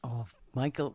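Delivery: ordinary talk, nothing marked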